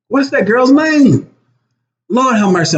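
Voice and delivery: high, slow exasperated plea; stretched out, straining to recall; brain freeze. Real, not acted. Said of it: "I'm having a brain freeze".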